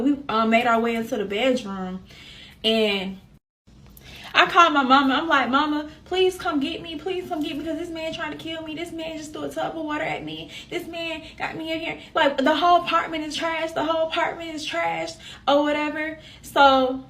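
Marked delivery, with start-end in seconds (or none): 5.5-12.0 retold plea, high and held back; desperate plea. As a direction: beg mama for rescue in a high voice. Retold desperate call to mother.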